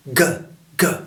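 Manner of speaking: gueux with a hard, punchy g; explosive g in gueux, gueux; powerful American G. Shown as a demonstration. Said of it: "avec de la puissance".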